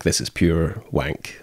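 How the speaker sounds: slow dismissive Scottish scoff. Retold or imitated. Drama student mocking class exercises, slow Scottish scoff. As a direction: scoff it out slowly in a broad Scottish voice. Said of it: "That's the Scottish part of you".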